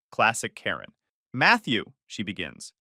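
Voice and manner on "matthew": sugary-sweet with a false ring; fake sweet. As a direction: say the name with put-on sweetness. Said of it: "fake sweetness dripping".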